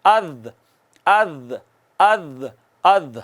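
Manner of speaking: articulation drill; ذال sound drill. Shown as a demonstration. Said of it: "ان کے کنارے کو لگا دیں".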